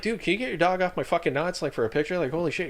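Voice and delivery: exasperated, make him move the dog; irritated plea. Retold or imitated. Second ask, more annoyed.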